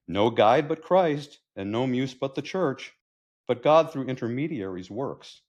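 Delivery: measured, declaimed verse with falling line ends; poem recital. Acted. Poet pleading for his muse's return, poetic recital.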